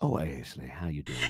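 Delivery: put-on sexy, sultry Southern American accent. Redoing a line in the sexiest of the southern accents. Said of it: "in the sexiest of all the southern accents".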